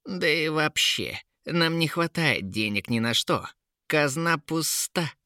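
hammed-up whiny complaint; whining. A narrator's reading. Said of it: "прохныкал Кейн".

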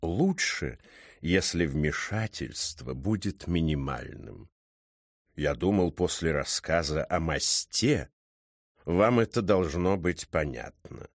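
deep, measured drawl of a learned cat; stern talking cat. Acted. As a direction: interrogate with slow, deliberate menace.

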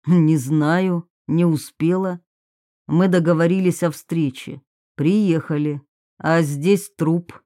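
slightly deepened man's voice, matter-of-fact; sceptic's low, measured answer; lightly voiced distrustful man. Man explains the meeting and the body, lightly voiced low. Dalmatov recounts finding the body.

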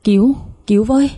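high-pitched but contained cry for help; mock shout for help. A narrator's reading. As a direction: call for help without full volume. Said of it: "Con Lan hét lớn". (kêu cứu giọng cao, không quá to)

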